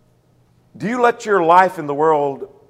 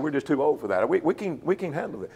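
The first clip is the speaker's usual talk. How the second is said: weary excuse; 2 semitones lower, 7 dB quieter than usual. Retold or imitated. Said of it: "No indication that he said".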